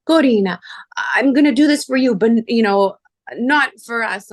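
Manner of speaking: put-on a touch of an exasperated boyfriend.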